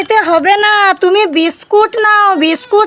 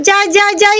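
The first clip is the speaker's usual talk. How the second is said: excited call. Pretend. Mock effort reaching for fruit.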